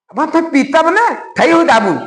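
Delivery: lightly voiced little child, lisping; a touch of toddler babble; small child lisping. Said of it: "छोटा बच्चा बोलेगा".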